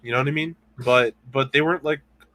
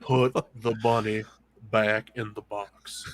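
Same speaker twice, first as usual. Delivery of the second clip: put-on a slow, half-hearted Southern accent; quoting a movie line in a bad Southern accent; 3 semitones lower, slower than usual. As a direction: drawl it out in a clumsy Southern accent. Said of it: "That Southern accent was so bad".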